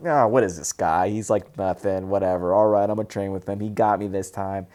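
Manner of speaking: low, dismissive cocky trainee; cocky attitude. Retold or imitated. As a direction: brush it off with cocky indifference. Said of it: "he's got this little cocky attitude".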